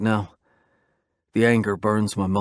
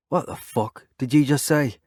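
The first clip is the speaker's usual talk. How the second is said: angry challenge; 5 semitones higher than usual. A narrator's reading. Biker snaps at insult.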